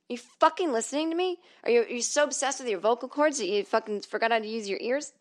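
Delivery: mock-incredulous, starting high; exasperated retort. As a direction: demand it in irritated disbelief. Acted exasperated retort to therapist.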